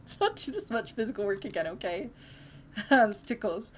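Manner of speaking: giggling through the words; laughing. Real, not acted. Laughing while reading.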